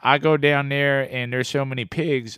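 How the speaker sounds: playful Texas Southern accent. Shown as a demonstration. Father jokes about Texas, mock Southern accent. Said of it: "What about the South?".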